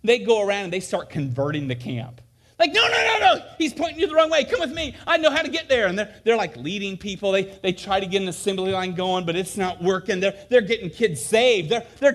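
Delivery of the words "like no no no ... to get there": urgent persuading. Retold or imitated. Saved campers converting others.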